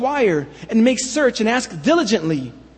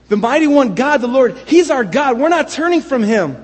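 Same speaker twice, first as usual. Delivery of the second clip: louder, choppy cry of loyalty; choppy anxious declaration; 3 semitones higher, 4 dB louder than usual. Retold or imitated. Tribes protesting their loyalty to God, louder and choppy. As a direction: break it up, each phrase its own burst. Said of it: "you see how choppy it is".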